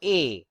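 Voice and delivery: A as a pure French é; closed "ay" on A, falling; acute-accent E. Shown as a demonstration. Teacher says how accented E is pronounced, closed ay. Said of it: "is pronounced as".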